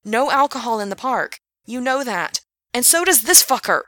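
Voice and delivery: high, loud indignant shout; angry shout. Acted. Gerard shouting at Alex about park rules, angry shout. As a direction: shout it at the maintenance guy. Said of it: "he shouted".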